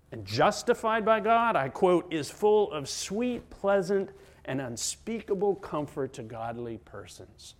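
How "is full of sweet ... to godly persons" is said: emphatic quotation. Real, not acted. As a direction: read out the quote with emphasis. First reading of quoted article.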